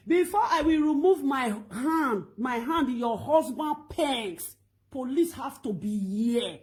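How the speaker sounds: slow and loud, each word weighed; firm slow ultimatum. Retold or imitated. Woman telling the wife police must come first, firm and slow. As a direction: lay down the terms slowly.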